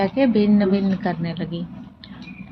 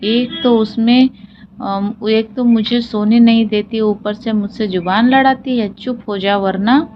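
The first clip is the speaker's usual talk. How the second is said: lion growling. Acted. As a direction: grumble angrily at the pest. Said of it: "वह गुर्राया".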